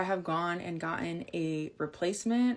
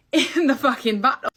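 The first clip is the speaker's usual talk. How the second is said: laughing disbelief; 3 semitones higher, 6 dB louder than usual. Real, not acted.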